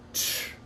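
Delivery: tch as a bare consonant; isolated tch sound. Shown as a demonstration. Teacher showing a learner a difficult consonant, bare tch. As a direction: give the tch alone, with no word round it. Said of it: "La première, ça va être".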